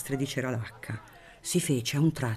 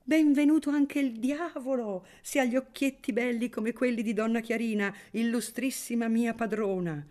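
higher, merry exclamation; toasting the hostess with a higher exclamation; exclaiming toast; 8 semitones higher than usual. A narrator's reading. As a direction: raise a glass and exclaim gallantly. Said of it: "esclamò don Ciccio alzando il bicchiere".

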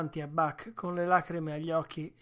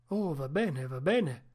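mildly hasty reassurance; gentle, placating. A narrator's reading. Onlooker backing down to the sled driver, gentle and placating. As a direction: back off kindly, smoothing it over. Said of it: "si affrettò a dire l'uomo con gentilezza".

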